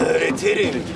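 a deep monster's ominous promise. A narrator's reading. Monster offering to teach the children, deep monster voice. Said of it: "demiş canavar".

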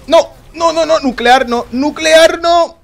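high, loud desperate yell; panicked shout. Real, not acted. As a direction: scream it in real panic.

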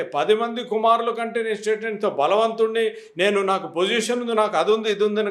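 a mildly proud, self-important husband listing his strengths; boastful husband. Acted. Husband to weeping wife, wrongly bragging, lightly voiced. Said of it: "కాదు".

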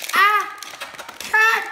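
high, loud yelps; real overexcited fan; excited scream. Real, not acted. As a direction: lose it completely. Screaming at the figure.

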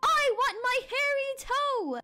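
high, wailing spooky call; hollow monster voice. Acted. Monster in the woods demands its toe, eerie wail. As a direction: call it out like a haunting creature. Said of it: "a hollow voice rumbled".

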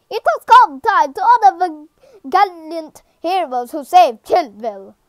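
half-hearted ceremonial announcer voice; Albert. Acted. Game character honouring heroes to a crowd, lightly voiced Albert. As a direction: attempt a formal honouring speech. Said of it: "I can't do an Albert voice".

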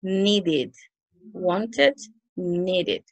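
"needed", "wanted" each with a full "id" syllable at the end; isolated example words, "-id" clearly sounded. Shown as a demonstration. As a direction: model "needed" as need-id and "wanted" as want-id. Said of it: "al final será id".

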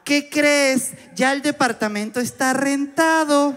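high, slow landlady brush-off; señora on the phone. Acted. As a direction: turn them down in a drawn-out high lady voice. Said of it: "la señora y que".

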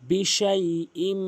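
বিশাইইম with a humming nasal ending; বিশাইইম with ghunnah. Shown as a demonstration. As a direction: hold the nasal hum on বিশাইইম. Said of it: "গুণনা করবেন".

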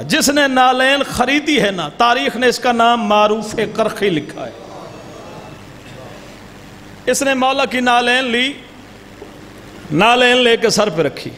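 steady preacher's narration with voiced figures; majlis storytelling. A zakir narrating the Imam's sandal story, measured preaching. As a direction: tell the tale to the mourners.

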